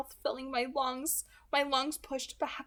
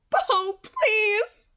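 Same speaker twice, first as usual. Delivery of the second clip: higher and louder, pleading through tears; sobbing plea; 10 semitones higher, 9 dB louder than usual. Acted. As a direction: beg him with a sob. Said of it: "Edith sobbed".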